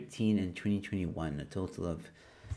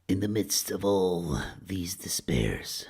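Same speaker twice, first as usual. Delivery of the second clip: movie trailer voice. Pretend. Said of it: "Movie voice time".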